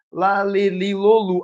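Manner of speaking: measured syllable-by-syllable recital; reciting the sequence. Acted. Teacher imitating a child searching for lu, step-by-step recitation. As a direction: step through the family to find the syllable. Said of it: "Ela vai falar todas as sílabas".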